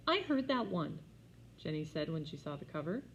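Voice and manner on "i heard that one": put-on whiny little girl. A narrator's reading. Whiny child.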